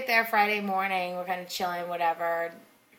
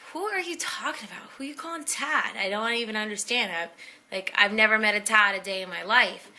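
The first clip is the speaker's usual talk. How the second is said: confused; 2 semitones higher than usual. Retold or imitated. Confused reply to friend's question.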